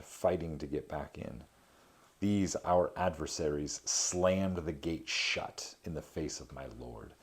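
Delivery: measured reading of an epic poem. A narrator's reading. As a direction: read the verse with gravity. Reads Dante translation aloud.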